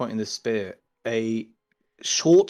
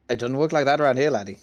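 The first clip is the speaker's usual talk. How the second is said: cocky Scouse-Irish brush-off; Scouse halfling. Acted. Halfling refuses to answer the newcomer, Scouse accent. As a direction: put on a rough Irish-turned-Scouse accent. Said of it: "but now he's a Scouse".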